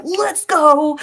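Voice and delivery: loud, high burst of energy; pumped up. Retold or imitated. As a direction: fire it off like a rallying cry. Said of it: "and I was like".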